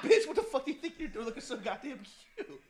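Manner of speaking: mimicked cheeky compliment as telling-off; playful mock scolding. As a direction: imitate a coworker's teasing outrage, amused. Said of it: "it was like the way he said".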